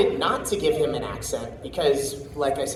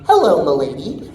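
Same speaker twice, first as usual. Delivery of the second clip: lightly voiced suave hero greeting; a hint of a cartoon hero; Miraculous character; 4 dB louder than usual. Shown as a demonstration. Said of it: "So I'd start my day going".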